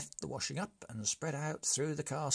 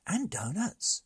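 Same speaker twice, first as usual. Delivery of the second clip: eager brigand blurting it out; excited shout of donuts; eager high cry; 9 semitones higher, 6 dB louder than usual. Acted. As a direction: pipe up high and loud.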